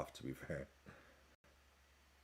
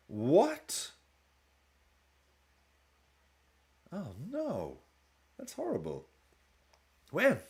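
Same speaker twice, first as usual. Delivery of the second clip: sudden high-pitched disbelief; gasping high as bad news lands; real shock; 8 semitones higher, slower than usual. Real, not acted. Hears a celebrity died.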